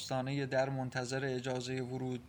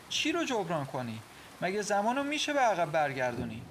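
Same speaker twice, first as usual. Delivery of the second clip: higher, reproachful questioning; indignant challenge; 4 semitones higher, 3 dB louder than usual. Acted. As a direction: challenge his promise to make amends. Acted quarrel, wife challenges husband. (با اعتراض و سرزنش)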